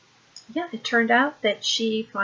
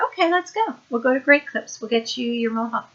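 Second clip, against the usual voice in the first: retold higher-pitched, agreeable mom voice; breezy agreement; 4 semitones higher, faster than usual. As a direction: play along with a sudden, easy yes. Mother feigns easy agreement in story.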